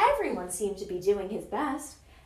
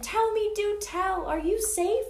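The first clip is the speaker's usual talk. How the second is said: higher, urgent pleading questions; anxious cry; 8 semitones higher than usual. A narrator's reading. Elephant checking on his friends, anxious cry. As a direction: press them eagerly, pitched up. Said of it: "cried the elephant".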